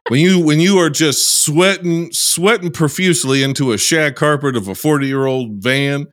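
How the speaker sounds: put-on Southern US accent; Southern drawl accent. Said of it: "I'm working on this accent".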